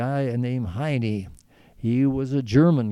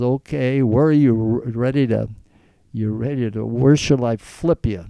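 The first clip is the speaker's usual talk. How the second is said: mock challenge; 7 dB louder than usual. Challenging a bully to wrestle.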